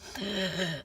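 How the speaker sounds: choked crying gasp; sobbing gasp. Retold or imitated. Crying kid gasping for breath while telling the teacher. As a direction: gasp for air mid-sob. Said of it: "that ugly ass crying".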